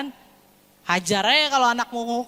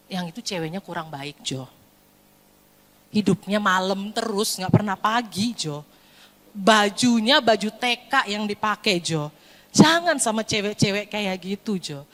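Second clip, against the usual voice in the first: lower-pitched parental caution; counselling parent; 4 semitones lower than usual. Acted. Parent warning Jo about a girlfriend, earnest advice. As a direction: reason with him, pitched slightly down.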